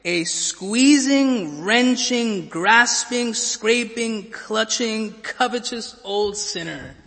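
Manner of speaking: slow, relished list of grasping words; mock Scrooge description. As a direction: savour each nasty adjective slowly. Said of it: "Dickens describes him this way".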